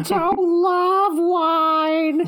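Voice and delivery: high, very slow sung monkey voice; Bonzo drunk singsong. Pretend. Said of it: "he already sounds like a drunk".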